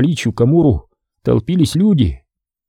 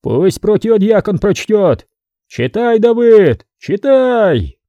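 demanding; 7 semitones higher, slower than usual. A narrator's reading. Crowd demands reading.

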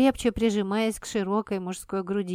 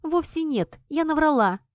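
quick denial; 8 semitones higher, 3 dB louder than usual. Acted. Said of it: "быстро заявила я".

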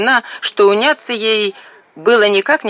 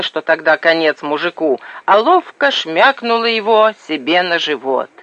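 usual speaking voice

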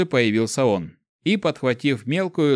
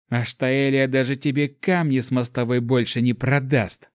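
gloating triumph. Acted. Gloats over crushing the server.

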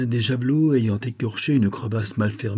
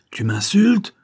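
loud, much higher outraged cry; furious monk crying out at an insult; exasperated cry; 10 semitones higher, 6 dB louder, slower than usual. A narrator's reading. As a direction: shout it back, exasperated. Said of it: "cria Chantaboun exaspéré".

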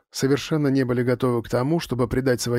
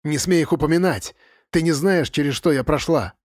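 voice breaking; 3 semitones higher than usual. Acted. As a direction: cry out with voice breaking. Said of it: "ломающимся голосом крикнула Сьюзен".

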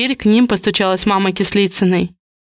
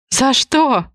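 breathed out; 5 semitones higher than usual. A narrator's reading. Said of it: "выдохнула мама".

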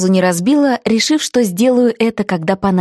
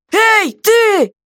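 high, loud worried shout; jailer's anxious holler; alarmed yell; 13 semitones higher, 4 dB louder than usual. Acted. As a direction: call up in alarm. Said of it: "встревоженно заорал".

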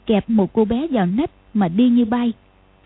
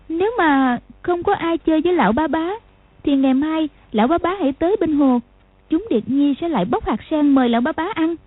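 gentle; 5 semitones higher than usual. Acted. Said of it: "bèn nhẹ nhàng nói". (giọng bé gái nhẹ nhàng)

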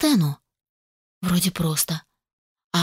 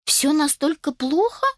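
shocked; 8 semitones higher than usual. A narrator's reading. Cousin shocked.

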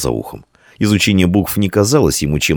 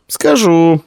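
high, curt disapproval; grudging agreement; disapproving; 13 semitones higher, 4 dB louder than usual. A narrator's reading. Girl answers Dian, high disapproving. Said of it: "неодобрительно произнесла девочка".

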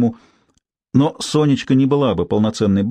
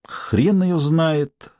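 slow, drawn-out mumble; mumbled; 6 semitones higher, much slower than usual. Acted. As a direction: mumble it lazily, slowly. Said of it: "пробормотала Цыпка".

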